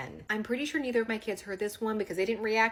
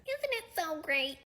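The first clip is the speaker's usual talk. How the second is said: ordinary talk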